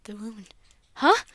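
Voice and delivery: soft, hushed, urgent question; urgent whisper. Acted. Doctor asks quietly and urgently.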